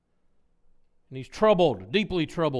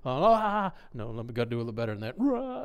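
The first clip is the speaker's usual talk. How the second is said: mock practiced wailing; 7 semitones lower, much faster than usual. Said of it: "they would look in the mirror, you know, and go".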